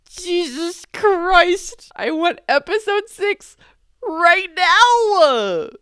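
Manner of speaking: high, drawn-out wail building to a yell; theatrical high-pitched outburst; exasperated demand. Real, not acted. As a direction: demand it like an impatient fan. Demands next episode in exasperation.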